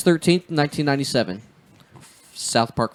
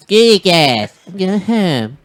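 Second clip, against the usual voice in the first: mock huff; 7 semitones higher, 7 dB louder, much slower than usual. Mock storming off.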